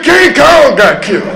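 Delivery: put-on high, whiny child wail, half laughing; a kid crying over King Kong, whiny; mock childish sob. To his mother, a kid sobbing over King Kong, whiny mock wail. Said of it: "I said".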